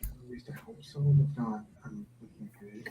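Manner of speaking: muffled, distant recording; like talking inside a tube; through a tube. Real, not acted. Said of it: "He's in a tube".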